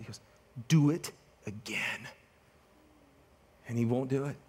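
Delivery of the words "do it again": soft, slow whispered command; whispered order. Retold or imitated. Coach whispering the order to his assistant, slow and soft. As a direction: hush it out like a cold threat.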